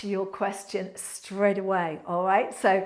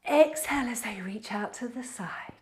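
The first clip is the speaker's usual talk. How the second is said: whispered cue; 4 dB quieter than usual. Acted. Breathing cue during stretch.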